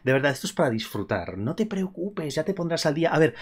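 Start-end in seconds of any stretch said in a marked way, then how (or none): 1.4-3.1 softer, higher, gently reassuring. Real, not acted. Streamer reassuring a viewer who missed the live, gently. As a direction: ease their worry softly. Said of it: "reassures viewers who missed stream".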